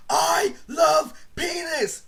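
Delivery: slow, high mock shout of the dare; drawn-out shouted taunt; retold yell. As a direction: belt it out like the dare demands. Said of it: "go outside and yell".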